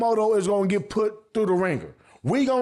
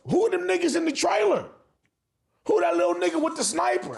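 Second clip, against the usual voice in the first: excited; 9 semitones higher, faster than usual. Real, not acted. Hyped questions about trailer characters.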